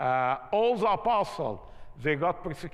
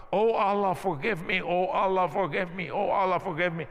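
retold shouting prayer; faster than usual. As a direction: imitate a frightened clerk crying out for forgiveness, half-voiced. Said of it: "the guy starts shouting".

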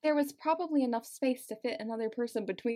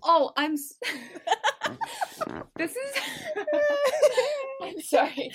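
higher, words broken up by real laughter; helpless laughing. Real, not acted. Reader apologises to listeners, helplessly laughing. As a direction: apologise through a fit of giggles. Reader cracks up at own accent.

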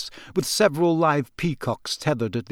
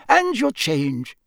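slow, higher, dreamy character voice; placid; 6 semitones higher, slower than usual. A narrator's reading. Memory-charmed keeper handing over money, placid and slow. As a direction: drift through it slowly, unbothered. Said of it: "said placidly".

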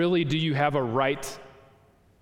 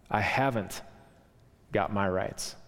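gentle spirit; 4 semitones lower than usual. Acted. Spirit's soft reply, echoed by ghost.

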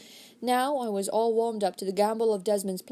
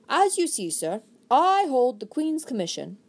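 very deliberately; 4 semitones higher than usual. Acted. Desmond answering Sir Philip with his commission, very deliberate. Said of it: "He spoke at last, very deliberately".

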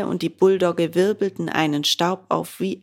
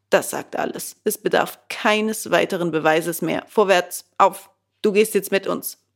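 commanding gendarme. Acted. The gendarme arrests Bengele with a firm order. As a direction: order him along.

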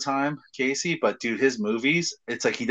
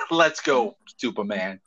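badly faked Boston accent; 4 semitones lower, slower than usual. Host imitating the actor's brother, bad Boston accent. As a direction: do a clumsy Boston impersonation. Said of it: "I'm terrible at it".

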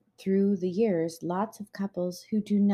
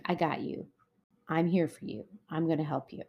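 softer, gentle voice of support; reassuring; 4 dB quieter than usual. Acted. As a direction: quietly offer to be there for them. Models supportive words to a partner.

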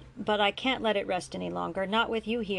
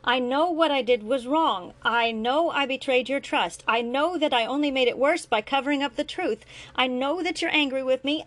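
higher, louder exasperated insistence; impatient; 6 semitones higher, 5 dB louder than usual. A narrator's reading. Grant to his son, impatient and raised. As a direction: hammer each I know home. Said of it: "Grant was becoming impatient".

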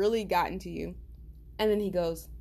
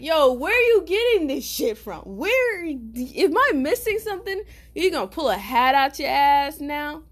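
high-pitched, loud disbelief; incredulous demand; 7 semitones higher, 5 dB louder than usual. Retold or imitated. Caller sees friend return with a sword, incredulous. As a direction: demand answers in a rising-pitched, baffled outburst.

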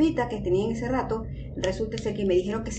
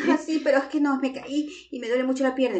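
put-on whiny drunk sister; 5 semitones higher, 3 dB louder than usual. Drunk sister voiced in story.

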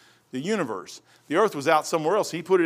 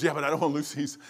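lightly voiced mother, much softer; soft mom voice; 4 semitones lower, 5 dB quieter, faster than usual. Mother quietly begging her son over her pills, softer. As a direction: murmur it like a pleading old mom.

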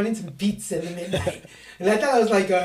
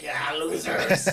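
slow, drawn-out mocking jeer; mocking homeless guy; 4 semitones lower, much slower than usual. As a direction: sneer at the tourists, laughing. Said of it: "the homeless guy was like".

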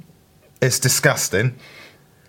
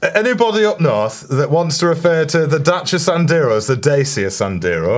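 put-on Northern accent; 4 semitones higher than usual. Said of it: "harder to say in a northern accent".

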